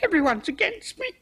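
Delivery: half-laughing, half-crying protest; tearful outburst. Acted. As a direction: near tears with a nervous laugh, everyone against her. Cook breaks down, accused over death.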